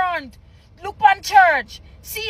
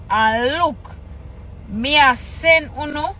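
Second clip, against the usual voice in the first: reading scripture aloud; 2 semitones lower than usual. Acted. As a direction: read the patois haltingly, phrase by phrase. Reads patois scripture aloud.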